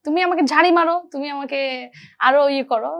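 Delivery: mildly insistent imitation of a senior actor; retold pushing. Senior actor urging junior to scold him, retold pushing. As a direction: egg the junior on. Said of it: "push করার যে ব্যাপারটা".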